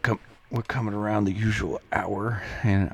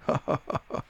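ridiculous put-on laughter; exaggerated fake laugh. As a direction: laugh mockingly at the heckler. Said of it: "I would laugh a extreme, ridiculous laugh".

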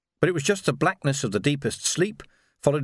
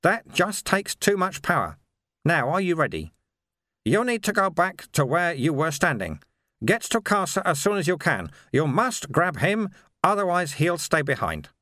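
higher-pitched, lightly voiced mentor; Sweeper instructing; 4 semitones higher than usual. Sweeper tells Vimes where to stand, instructing. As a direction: give careful instructions in a higher voice.

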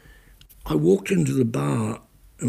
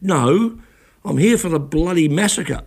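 sharp, louder retold anger; indignant, raised voice; angry retort; 3 semitones higher, 4 dB louder than usual. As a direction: snap it back at the man in the lift. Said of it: "I was really angry".

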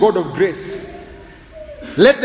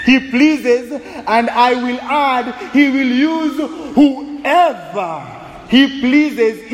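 proclaiming; slower than usual. Acted. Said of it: "psalmist proclaims".

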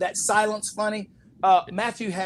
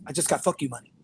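imitating Matthew; 5 semitones lower, 4 dB quieter, faster than usual. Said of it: "he goes".

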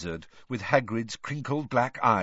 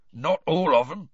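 hoarse, higher, louder protest; 7 semitones higher, 5 dB louder than usual. A narrator's reading. Upset gamekeeper contradicting his headmaster, hoarse. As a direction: protest hoarsely in a big man's rough voice. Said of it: "said Hagrid hoarsely".

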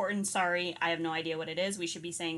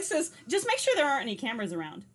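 sassy aside; 6 semitones higher, 4 dB louder than usual. Retold or imitated. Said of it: "I was like".

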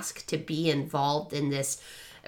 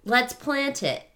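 put-on eager kids voice; 5 semitones higher, 5 dB louder than usual. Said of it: "And they're like".

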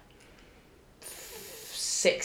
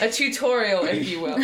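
laughing; 3 semitones higher, 3 dB louder than usual. Real, not acted. Joke continues.

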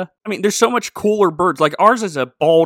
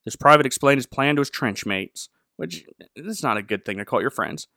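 ordinary talk, nothing marked

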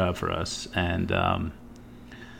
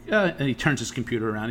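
ordinary talk

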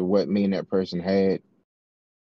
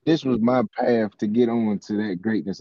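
voice cracking; 2 semitones higher than usual. Real, not acted. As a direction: voice cracks mid-sentence. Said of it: "I'm sorry that my voice just cracked".

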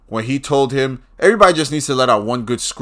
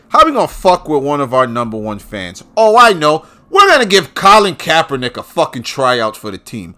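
mocking team's scheming; 2 semitones higher, 6 dB louder than usual. Fan imagining his team plotting against him, mocking. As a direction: act out plotters hitting on an idea. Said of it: "They must wake up and say".

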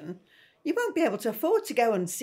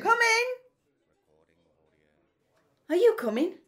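calling out; 6 semitones higher, 6 dB louder than usual. Acted. Mum calling from next room.

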